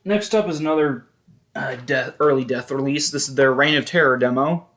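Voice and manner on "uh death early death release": ordinary talk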